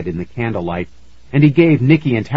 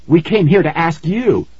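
put-on pleading boy; 7 semitones higher, 4 dB louder than usual.

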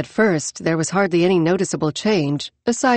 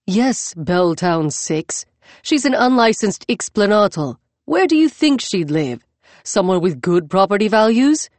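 defensive. Acted. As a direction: justify yourself, a bit prickly. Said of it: "He sounded defensive".

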